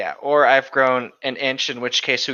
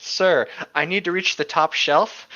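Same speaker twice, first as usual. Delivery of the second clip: slow mock complaint; 3 semitones higher than usual. Mock complaint while being hugged.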